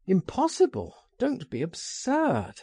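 brushing off the objection; sharp retort. A narrator's reading. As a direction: retort as if the idea is absurd. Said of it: "I retorted".

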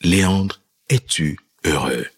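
a grave inner voice asking gently; voice of God. Retold or imitated. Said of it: "la voix me dit".

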